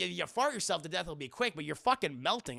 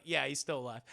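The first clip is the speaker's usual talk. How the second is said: deadpan; 5 semitones lower than usual. Retold or imitated. Friends answering the shocked mourner, low deadpan. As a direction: confirm it with no fuss.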